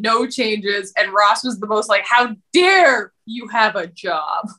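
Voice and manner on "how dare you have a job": slow, drawn-out affronted outburst; Ross's mock indignation. Imitating jealous Ross scolding Rachel, mock indignant. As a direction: lean indignantly on the dare, hammed up.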